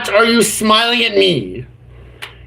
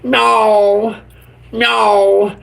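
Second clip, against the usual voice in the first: mock cat meow; much slower than usual. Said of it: "I'm the Pink Panther".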